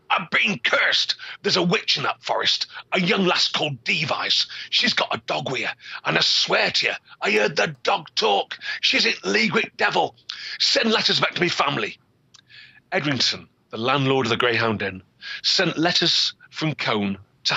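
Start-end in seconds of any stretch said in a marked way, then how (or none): 0.1-12.0 high, strained cry of the cursed man; frightened shout. Acted. Cursed peddler telling landlord of the witch, high frightened cry. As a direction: gasp it out, terrified. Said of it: "he shouted".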